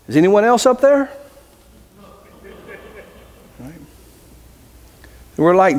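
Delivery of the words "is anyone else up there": mock yell, higher and rising; yelling up top. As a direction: call up hopefully for someone else. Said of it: "Jack yelled back up top".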